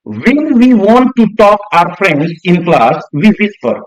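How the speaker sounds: slow, deliberate reading aloud; textbook reading. Shown as a demonstration. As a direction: read each word out slowly for the class. Reads textbook line slowly.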